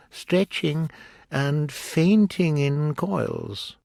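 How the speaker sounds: high, slow mournful turtle; Mock Turtle voice. A narrator's reading. Mock Turtle listing school subjects to Alice, high and slow. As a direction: drag each subject out sadly.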